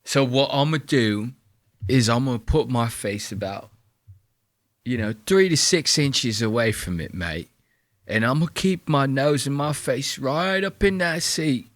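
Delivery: lightly voiced trainspotter, each line ending in mate; deadpan parody of the enthusiast; parodying the video maker, lightly voiced mock bloke; mock trainspotter bit. Mocking the trainspotter at length.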